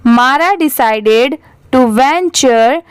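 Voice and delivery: slow, word-by-word model reading; repeat-after-me reading. Shown as a demonstration. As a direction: read slowly so learners can repeat. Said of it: "मेरे बाद आप repeat करिए".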